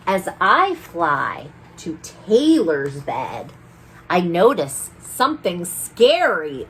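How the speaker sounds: lively sing-song read-aloud; rhyming storybook reading. A narrator's reading. Storyteller reading a rhyming book to children. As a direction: read the rhymes to the children with bounce.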